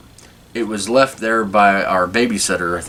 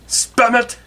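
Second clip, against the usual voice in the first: put-on much higher "spam it" in the old Jewish barber accent. Barber finishing his argument, old Jewish accent. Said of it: "I said spam it".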